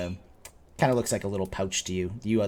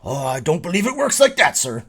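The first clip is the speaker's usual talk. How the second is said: lightly voiced innkeeper, higher and louder; polite innkeeper; 9 semitones higher, 9 dB louder than usual. Innkeeper refusing a customer a discount, lightly acted and polite. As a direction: turn down the customer in a raised, lilting voice.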